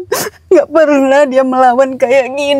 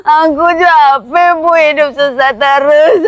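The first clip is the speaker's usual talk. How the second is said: tearful yell at her mother; crying outburst at mother; crying shout. Acted. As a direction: shout it through tears. Girl shouts back, crying.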